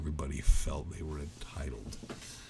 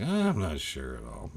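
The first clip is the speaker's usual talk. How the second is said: lightly acted waverer, pitch sliding down; mock hesitant. Imitating a friend who won't mess with something, mock hesitant. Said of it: "kinda that guy that's like".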